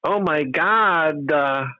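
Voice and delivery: GOD drawn out with an extra "uh" on the end; high, stretched "God-uh"; added uh after God. Retold or imitated. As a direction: mimic people who say GOD as God-uh. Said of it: "the people that go, uh".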